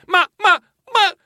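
high, astonished exclamation; flabbergasted, pitch leaping up; stammering cry. A narrator's reading. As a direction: cry out in disbelief, starting with a stammer. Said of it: "Io gridai".

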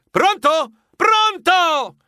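high, urgent call into the phone; shouting. Acted. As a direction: call out to a caller who has gone. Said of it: "Io gridai".

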